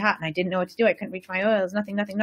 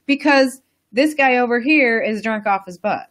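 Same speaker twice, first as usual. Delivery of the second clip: gleeful ghost; 6 semitones higher, 4 dB louder than usual. Retold or imitated. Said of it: "finally is like".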